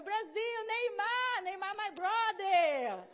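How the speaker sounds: high, drawn-out football cheer; hammed-up, high-pitched hail to a buddy; excited greeting. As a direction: shout it out like a delighted fan. Retold cheerful greeting to locals.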